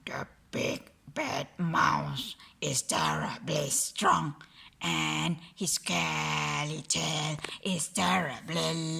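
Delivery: hushed, low scary storytelling whisper; low breathy whisper building to a shout on wire; spooky whisper. Acted. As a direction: whisper it like a monster tale to scare the child. Gruffalo tells of the mouse.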